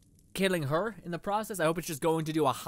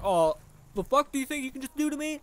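higher, louder mock animal sass; imitating a cocky animal; 9 semitones higher, 5 dB louder than usual. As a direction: voice the enemy animal acting tough. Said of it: "an animal is just like".

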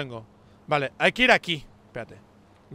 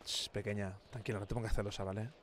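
soothing; 7 semitones lower, 13 dB quieter than usual. Real, not acted. Soothing a pet.

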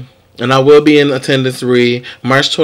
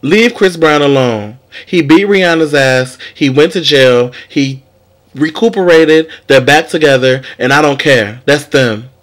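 loud rant; 4 dB louder than usual. Real, not acted. Ranting at critics.

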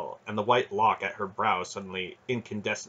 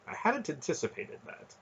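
higher, softer, relieved remark; light, raised voice of relief; 7 semitones higher, 6 dB quieter than usual. A narrator's reading. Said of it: "Khador said in a relieved tone".

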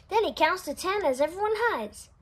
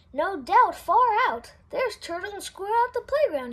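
excited shout; 3 semitones higher than usual. Acted. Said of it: "he shouts".

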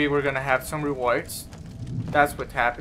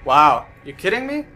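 loud disbelief; 6 dB louder than usual. Real, not acted. Episode finally ends.

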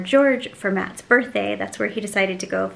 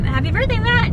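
cheerful birthday wish; 13 semitones higher than usual. Real, not acted. Wishing husband happy birthday.

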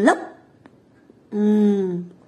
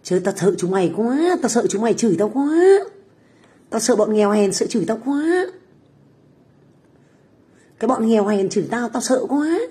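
mock fear. Streamer taunting haters who curse her, mock fear. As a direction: feign being scared, lifting each last word.

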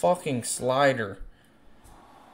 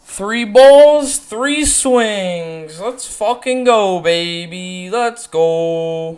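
high, loud burst of celebration; real triumphant cheer; excited shout; 6 semitones higher, 6 dB louder, slower than usual. Real, not acted. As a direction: yell it out after the big hit. Celebrating a big hit.

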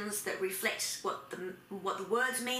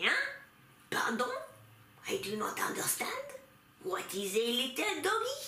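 put-on French accent. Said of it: "those French people, they'll say".

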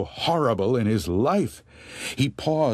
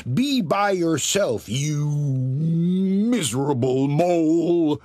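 put-on sneering old woman; 6 semitones higher, 3 dB louder than usual. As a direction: sneer it down at him. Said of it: "she sneered".

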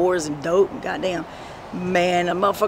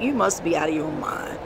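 whispered aside; 2 semitones lower, 5 dB quieter than usual. Retold or imitated. Telling off the landlord.

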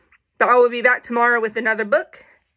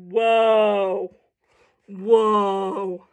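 amazed animals; 3 semitones lower than usual. Acted. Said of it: "all the animals are like".

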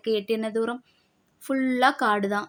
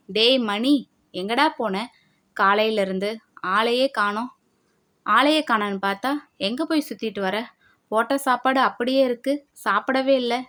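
grumbling grandmother. Acted. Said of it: "பாட்டி புலம்பிக் கொண்டு".

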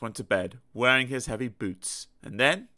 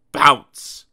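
loud bounce call; 11 dB louder than usual. A narrator's reading. Tennis rally bounces.

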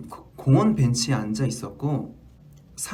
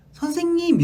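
put-on much higher child's call. Child at the window calling the teacher, high and childlike. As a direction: call to the teacher like a small kid. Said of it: "이러는 거예요".

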